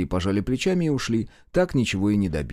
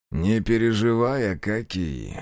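steely confidence; slower than usual. Acted. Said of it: "звучала стальная уверенность".

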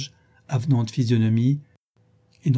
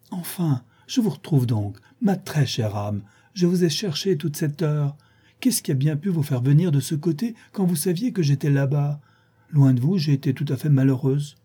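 put-on higher, gushing young friend; gushing Isabelle; 4 semitones higher than usual. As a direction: pour out affected delight at finding her. Isabelle greets Catherine effusively.

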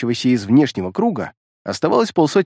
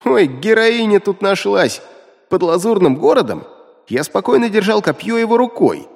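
mocking grumble; 5 semitones higher than usual. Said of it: "Демон заворчал".

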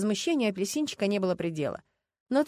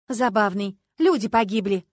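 sharp, louder indignant retort; bristling at the joke; 8 dB louder, slower than usual. A narrator's reading. Люба snaps back at the lieutenant, indignant. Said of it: "возмутилась Люба".

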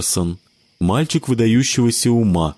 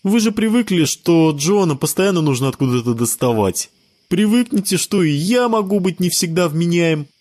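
put-on high boyish voice, mildly defensive; a kid shrugging off the blame, high; shrugging child; 8 semitones higher than usual. A narrator's reading. Sebastian excuses himself to friends, high child voice.

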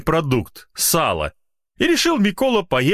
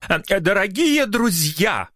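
higher, hesitant official voice; solemn opening; 9 semitones higher than usual. Acted. Secretary opens the press conference solemnly, higher. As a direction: open the conference with ceremony. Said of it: "начал он торжественно".

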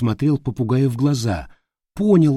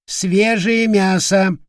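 high, slow parrot squawk on «свежее»; parrot cry; 8 semitones higher, much slower than usual. Acted. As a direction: drag «Свежее мясо» out slowly, high and birdlike. (медленный высокий крик попугая «Свежее мясо»)

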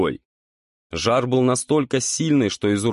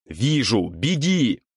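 growled reply; 3 semitones higher, slower than usual. A narrator's reading. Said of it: "рыкнул парень".

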